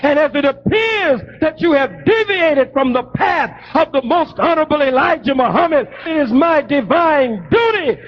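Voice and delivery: a preacher's rising rebuke, full voice; fiery preaching. Acted. Son denouncing his spiritual father, preaching at full force.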